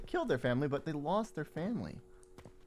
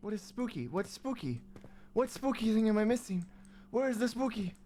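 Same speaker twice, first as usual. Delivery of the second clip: taunting; 7 semitones higher than usual. Pretend. Loud high taunting voice.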